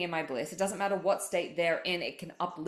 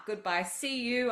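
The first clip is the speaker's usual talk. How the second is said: breezy dismissal; 7 semitones higher, slower than usual. Retold or imitated. Dismissing old patterns.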